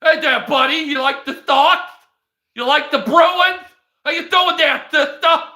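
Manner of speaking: hammed-up Boston guy greeting you; Joe Swanson Boston accent. Imitating a Boston-accented guy to show how he sounds, loud and high. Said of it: "this guy sounds like this".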